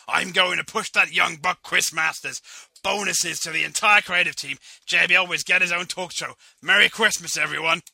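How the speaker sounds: loud proclamation. Acted. Vince's generous proclamations.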